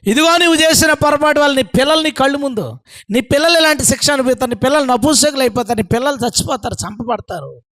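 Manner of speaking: high-pitched warning that fades at the end; acted prophecy of doom; pronouncing judgement. God's judgement on Hezekiah voiced.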